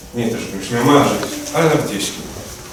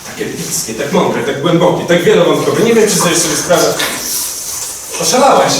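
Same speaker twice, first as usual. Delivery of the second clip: building, raised and loud protest; indignant; 4 semitones higher, 4 dB louder than usual. Acted. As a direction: pile up praise in rising indignation. Indignant defence in acted quarrel. (coraz głośniejsze oburzenie)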